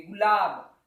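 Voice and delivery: गुलाब with गु said quickly; brief गु going straight into लाब; fast short u. Shown as a demonstration. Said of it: "fast बोलोगे".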